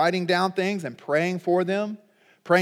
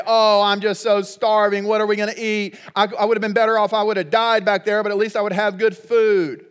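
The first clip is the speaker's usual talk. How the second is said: complaining Israelites; 2 semitones higher than usual. Retold or imitated. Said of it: "they start complaining".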